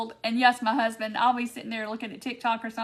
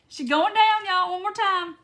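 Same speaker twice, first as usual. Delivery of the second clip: high, louder play-by-play, delighted; excited anticipation; 7 semitones higher, 3 dB louder than usual. Real, not acted. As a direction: call everyone in for the topple. Calling viewers to watch another topple.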